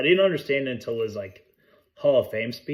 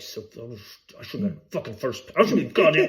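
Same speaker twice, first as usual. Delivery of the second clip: put-on angry kid voice. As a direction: spit it out like a sore loser. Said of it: "the guy's like".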